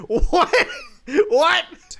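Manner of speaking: high incredulous what; shocked what. Real, not acted. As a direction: react in total disbelief. Reacting in disbelief.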